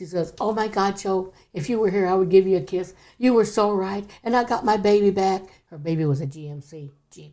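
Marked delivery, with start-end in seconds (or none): 0.4-5.4 put-on near-shout, almost yelling. Retelling a woman calling joe on the phone, retelling almost yelling. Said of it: "almost yelled in the phone".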